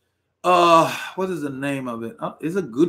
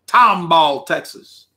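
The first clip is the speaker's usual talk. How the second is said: Tomball, Texas with a lightly stretched Texas drawl; a hint of a Texas drawl on Tomball; 3 dB louder, much slower than usual. Shown as a demonstration. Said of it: "That's how they say it with a drawl".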